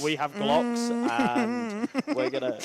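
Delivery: high slow tough-guy voice; mock tough guy. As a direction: ham up a gangster boast. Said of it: "but it's a".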